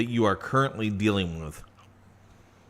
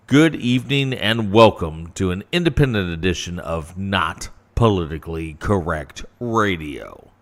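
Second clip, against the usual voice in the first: radio announcer intro; 3 semitones lower than usual. Acted. Formal show intro read.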